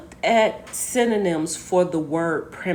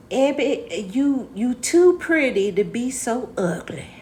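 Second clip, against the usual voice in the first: put-on grandmother's Alabama accent, pitched up; Southern accent; 5 semitones higher than usual. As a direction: imitate a Southern grandmother scolding fondly. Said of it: "She said she had a southern ac-, accent".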